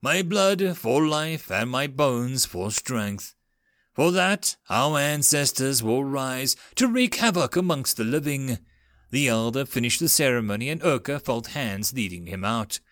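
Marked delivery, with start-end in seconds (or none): 0.0-8.6 ritual intoning. Acted. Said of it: "Urka intoned, followed by the ancient ritual".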